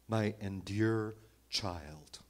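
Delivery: put-on slow, tender address to a small child; slow and tender, like soothing a child; tender parent. Shown as a demonstration. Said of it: "a parent speaking to a little child".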